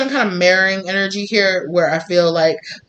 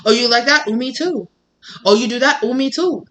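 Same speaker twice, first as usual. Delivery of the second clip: higher, chirpy mock agreement; mock eager echo; 5 semitones higher than usual. Narcissist echoing your interests, chirpy mock imitation. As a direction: parrot everything back, lightly mocking. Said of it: "they're just like".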